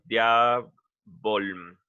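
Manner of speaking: diabolum stretched out slowly, each syllable drawn out; slow, careful demo. Shown as a demonstration. Teacher spelling out a Latin word for students, slow and careful. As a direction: lay out diabolum slowly for the class. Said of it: "esta U desaparece".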